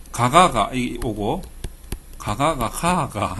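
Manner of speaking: 가가가 가가 said slowly with dialect tones; 경상도 사투리로 가가가 가가; Gyeongsang 가가. Shown as a demonstration. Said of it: "이렇게 되면 어떻게 되냐면".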